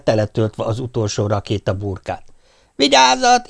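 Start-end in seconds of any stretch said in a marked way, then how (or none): 2.5-3.5 short, sharp, much higher shout; quick warning shout. Acted. Pop warning the crowd before the launch, quick sharp shout. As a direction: snap the warning out fast. Firing a rocket, warning all.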